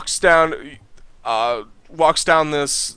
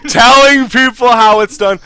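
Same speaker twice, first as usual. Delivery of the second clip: laughing narration; 7 semitones higher, 9 dB louder than usual. Real, not acted. Game master narrating the player's swagger while laughing. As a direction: narrate through giggles, higher and louder.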